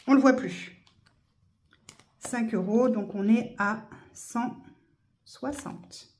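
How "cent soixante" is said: whispered. Real, not acted. Soft unvoiced number.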